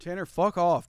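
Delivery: loud mock Midwest accent. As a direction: bellow it like a cartoon Midwesterner. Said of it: "that's how you test a Midwest accent".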